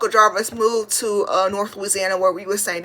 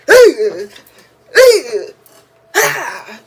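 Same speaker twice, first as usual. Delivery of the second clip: Grinch-like "ugh" noises, first ones loud; imitated grunts; 7 dB louder, much slower than usual. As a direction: grunt it out loudly, then let it fade. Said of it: "looking at the dog like".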